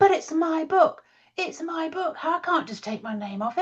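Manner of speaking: going berserk, high-pitched and frantic. Retelling clients told to take their names off a book: imitating clients going berserk. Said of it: "these clients were just going berserk".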